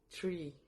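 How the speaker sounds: tree as in English; pronouncing tree. Shown as a demonstration. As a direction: model tree like the English word. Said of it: "y se pronuncia".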